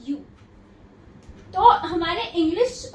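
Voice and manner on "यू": "यू" said as a full "yoo"; long U sound. Shown as a demonstration. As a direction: say "यू" like the letter's name U. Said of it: "और long sound". ("यू" को लंबा, पूरा बोलकर)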